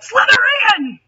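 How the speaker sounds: high, loud triumphant yell; hat yelling. A narrator's reading. Sorting hat announces Rachel's house, high loud yell. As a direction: shout the house name out to the hall. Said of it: "the hat yelled out".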